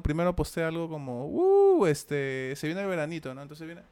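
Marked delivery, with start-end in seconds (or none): 1.3-3.3 summer lover impression. Mimicking summer lovers posting on Facebook, lightly voiced. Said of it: "voy a hacer una impersonation".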